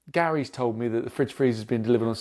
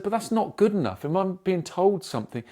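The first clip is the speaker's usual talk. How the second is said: raised-pitch retold protest; indignant objection; 4 semitones higher than usual. Customer rejecting the delivery company's apology, indignant. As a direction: object firmly, pitch lifted.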